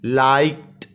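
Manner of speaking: लाइक्ड with a detached "t" at the end; ending pronounced t. Shown as a demonstration. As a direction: say लाइक्ड as लाइक... ट. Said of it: "टी पे ख़त्म होता है". (लाइक्ड के आख़िर में अलग से "ट")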